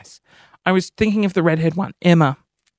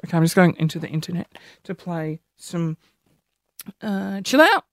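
ordinary talk

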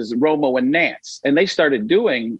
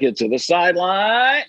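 excited Jim Nance call; an announcer with the volume dial turned up; Jim Nance impression; 4 semitones higher than usual. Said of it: "when Jim Nance gets excited".

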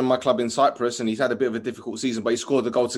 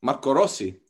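Marco Rossi with an Italian twang. Shown as a demonstration. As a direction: repeat the Italian name with some twang. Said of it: "You said that with some twang".

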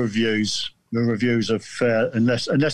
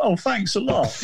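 sarcastic thanks; 10 semitones higher than usual. Retold or imitated. Mock thanks after being called special.

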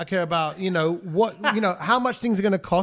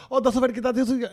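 higher-pitched imitation of her greeting; imitated polite compliment; 6 semitones higher, faster than usual. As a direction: put on her admiring voice, raised in pitch. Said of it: "she goes".

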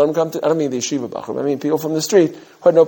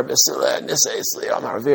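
soft, half-whispered imitation of an old rebbe's Litvish Gemara reading; heavy Litvish accent; 4 dB quieter than usual. Rabbi imitating his old teacher starting Gemara, light Litvish accent. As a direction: mimic an old Litvish rosh yeshiva reading "Basula, Nisei, Sli" in a Litvish accent. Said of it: "a very heavy Litvish accent".

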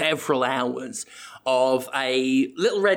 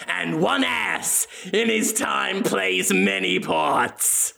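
hammy Shakespeare recital; 3 semitones higher than usual. Pretend. The speaker reciting to the audience, slow mock-grand recital. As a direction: recite like a pompous stage actor. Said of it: "Willem reciting Shakespeare".

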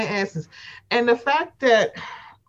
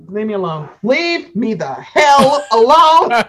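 slow, louder laughing yell; mock shout; 6 dB louder than usual. Host acts out Giselle's outburst to her cohost, slow laughing yell. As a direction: bellow it as the fed-up Giselle. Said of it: "launch into Giselle".

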